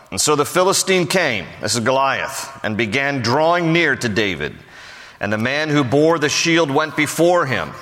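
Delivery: solemn scripture reading voice. Acted. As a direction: read the verse out to the congregation. Reads scripture aloud.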